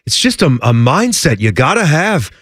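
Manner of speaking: Tortorella impression. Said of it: "John Tortorella's accent".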